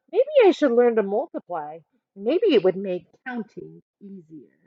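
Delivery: put-on lively picture-book narration for kids; reading a story aloud. A narrator's reading. Teacher reading a picture book to her class, storytelling voice. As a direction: read it as Amanda telling her own story.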